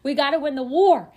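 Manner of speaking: rally for the bidding war; fired-up determination. Retold or imitated. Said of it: "And I'm just like".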